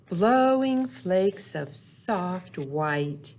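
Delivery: unhurried storybook read-aloud, lingering on the rhymes; reading to children. Acted. Teacher reading Snow Days aloud to little kids, gentle storytelling. Reads picture book to children.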